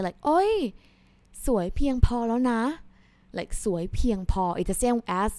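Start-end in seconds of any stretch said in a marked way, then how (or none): 0.2-2.6 higher, gushing little example line; playful compliment. Shown as a demonstration. Teacher acting out a playful compliment, gushing. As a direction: tease someone that they look pretty enough. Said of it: "So many times if you say".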